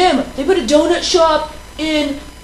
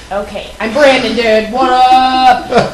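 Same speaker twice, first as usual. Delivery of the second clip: bro voice; man voice; 3 dB louder, slower than usual. Pretend. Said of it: "talk in my man voice".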